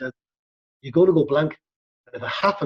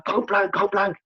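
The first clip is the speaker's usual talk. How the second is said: higher-pitched call at normal volume; mock shout; 5 semitones higher than usual. Shown as a demonstration. Stuntman showing how to alert a fight partner, mock shout. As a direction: demonstrate a warning call without full force. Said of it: "shout to your friend".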